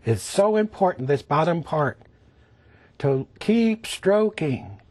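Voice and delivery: ordinary delivery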